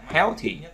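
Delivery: HEAL-thy, stressed on HEAL; weight on HEAL in Healthy, light -thy; first-syllable stress. Shown as a demonstration. Teacher giving an adjective example, stress on HEAL in Healthy. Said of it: "âm tiết thứ nhất".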